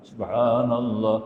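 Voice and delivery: "Subhanallah" with the ha sounded open and full, mouth open; "Subhanallah" said slowly with a clear open ha. Shown as a demonstration. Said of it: "ha maftuha".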